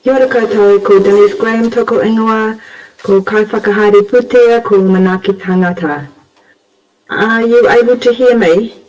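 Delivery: hoarse from the flu; slightly rough, recovering voice; rusty voice. Real, not acted. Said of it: "Apologies for my rusty voice".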